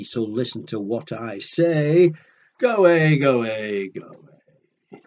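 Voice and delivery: loud, grumpy bird snapping go away; cross Go Away Bird. Acted. Storyteller voicing a cross bird refusing a chat, loud and grumpy. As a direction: shoo the chatterbox off crossly.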